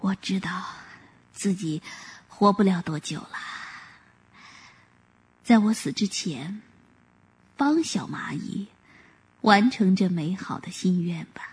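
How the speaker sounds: low, soft, fading into a whisper; old voice heavy with grief; deeply sorrowful. Acted. Dying Grandpa Turtle accepting his end, low sorrowful whisper. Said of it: "沉痛地说".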